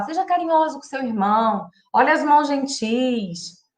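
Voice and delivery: mother coaching a sibling tenderly; gentle, tender request. Shown as a demonstration. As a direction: soothe a child into being kind. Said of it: "a gente vai falar".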